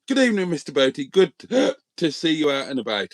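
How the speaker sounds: talking through hiccups; reading with a hiccup catching the breath. Real, not acted. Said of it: "Sorry, I've got hiccups now".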